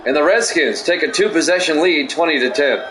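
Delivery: touchdown call, lifted on the scoring words; play-by-play call. Acted. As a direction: sell the touchdown like a broadcaster. Play-by-play of game.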